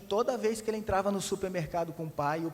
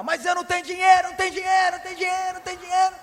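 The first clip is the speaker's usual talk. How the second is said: very high, loud shouted chant; mock shouting father; 9 semitones higher, 10 dB louder, faster than usual. Father mimicking his son's tantrum, high loud shouting. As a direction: yell it like a dad copying the tantrum. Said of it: "começou a gritar".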